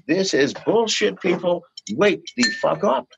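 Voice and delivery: fed-up shout at the screen; shouted protest. Retold or imitated. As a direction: yell it like a rallying cry. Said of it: "Go onto your social media and say".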